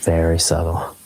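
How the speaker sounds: whispered teasing aside. Real, not acted. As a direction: breathe it out in a whisper. Teasing echo of co-host.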